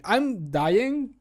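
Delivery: ordinary delivery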